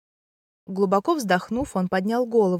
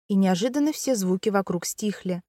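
ordinary delivery, nothing marked

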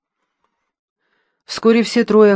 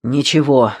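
out of breath. Acted. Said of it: "запыхавшись, произнёс он".

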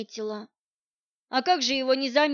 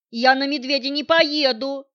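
louder, indignant refusal; outraged shouted refusal; indignant protest; 3 semitones higher, 7 dB louder than usual. Acted. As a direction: flatly refuse to ride the bear, outraged. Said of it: "возмутился".

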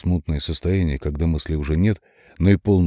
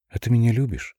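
lightly voiced little girl, eerie; creepy child; 5 semitones higher than usual. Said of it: "Детский голос".

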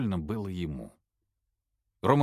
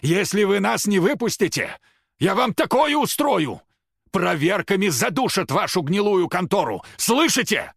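outraged threat; 11 semitones higher, 7 dB louder than usual. A narrator's reading. The old man threatens the watchers, shouting in outrage. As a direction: rage at the camera.

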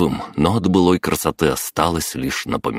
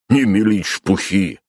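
scornful snort; 5 semitones higher than usual. Acted. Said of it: "фыркнул Григорий".

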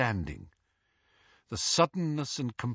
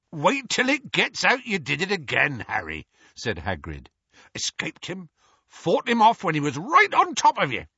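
proud Hagrid voice; 9 semitones higher, 5 dB louder than usual. Acted. Hagrid voiced, far timbre.

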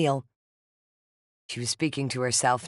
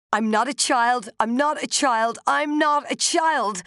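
loud and high, louder and slower on each repeat; building shout; 10 semitones higher, 4 dB louder, slower than usual. A narrator's reading. Narrator refusing to be called a child, building to a shout. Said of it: "I finally shouted".

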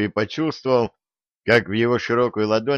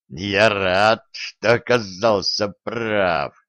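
mocking; much slower than usual. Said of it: "Насмешливый голос".

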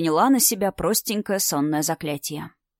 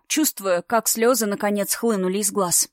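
usual speaking voice

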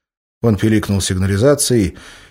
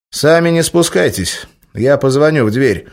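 Oleg's voice; 6 semitones higher, 5 dB louder than usual. A narrator's reading. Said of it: "сказал Олег".

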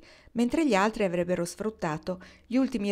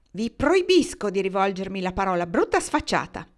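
louder, contemptuous snub; haughty rebuke; 6 dB louder than usual. Acted. Mrs Posey forbids Marnie to speak to her, louder scorn.

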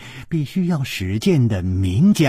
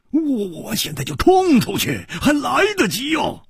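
deep-voiced; 12 semitones higher than usual. A narrator's reading. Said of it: "沉声说".

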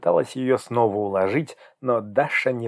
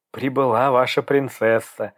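cheerful; 3 dB louder than usual. Acted. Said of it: "весело сообщила Наташа".

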